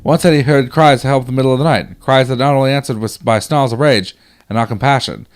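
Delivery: put-on old-timey soldier reading his letter. Soldier writes of frightening nights in hospital, old-timey voice. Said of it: "that's secretly just my old-timey voice".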